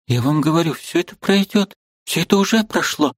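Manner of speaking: put-on a girl hiding her tears. A narrator's reading. Liza insists.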